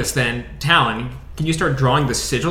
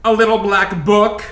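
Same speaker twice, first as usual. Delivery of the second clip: slow showy reveal; 7 semitones higher, slower than usual. Pretend. Pulling items out with flourish.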